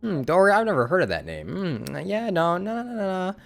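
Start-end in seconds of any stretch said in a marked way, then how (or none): none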